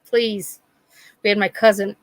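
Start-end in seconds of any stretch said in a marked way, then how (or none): 0.0-0.6 mock pleading. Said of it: "Can you call it a fitness pole".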